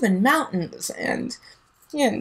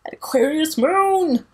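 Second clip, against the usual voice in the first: higher, knowing mock aha; lightly voiced knowing self-recognition; mock realization; 5 semitones higher, slower than usual. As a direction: catch yourself with a knowing aha. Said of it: "I'm like".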